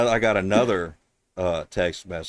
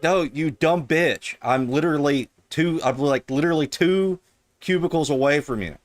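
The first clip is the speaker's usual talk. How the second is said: mock Indian accent; 8 semitones higher, 5 dB louder than usual. Trolling the scam caller.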